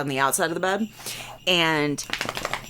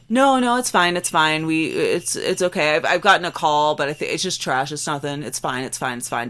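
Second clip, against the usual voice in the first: standoffish; 4 dB louder than usual. Retold or imitated. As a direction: imitate someone hastily waving it away. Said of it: "very, like, standoffish".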